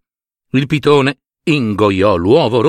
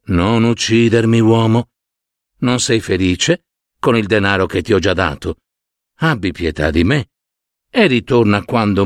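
pleading python; 2 semitones lower than usual. Acted.

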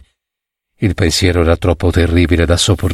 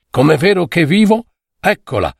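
excited cry; 8 semitones higher than usual. A narrator's reading. A friend spotting the lady in her carriage, excited cry. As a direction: cry it out at a raised pitch. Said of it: "gridò uno".

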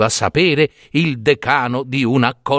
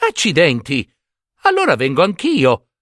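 excited exclamation; 3 semitones higher than usual. Acted. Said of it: "esclamò Giambabbeo".

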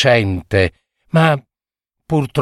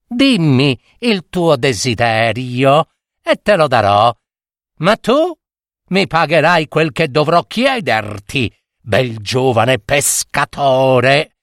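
sly witch. Acted. Witch tempting the young fisherman, sly and teasing. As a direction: bargain like a cunning red-haired witch.

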